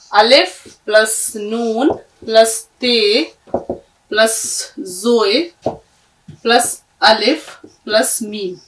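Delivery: slow, spaced letter names; slow spelling. Shown as a demonstration. Teacher spelling इंतजाम letter by letter. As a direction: dictate each letter slowly. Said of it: "इसी तरह से इंतजाम".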